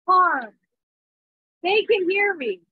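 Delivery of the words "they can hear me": shouting over rain. Real, not acted. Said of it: "but I'm shouting for you guys".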